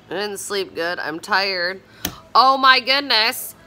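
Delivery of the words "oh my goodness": high, slow, gushing fan voice; excited. Real, not acted. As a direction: squeal it like a superfan.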